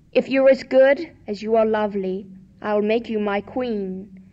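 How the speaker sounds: lightly voiced kind king; gentle king voice. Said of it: "said the king".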